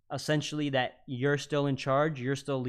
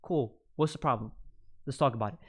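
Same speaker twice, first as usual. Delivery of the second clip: lowered tonality, direct; faster than usual. Shown as a demonstration. Man demonstrating defusing a row with his girlfriend, calmly direct. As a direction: settle into a calm, even voice. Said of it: "lower your tonality".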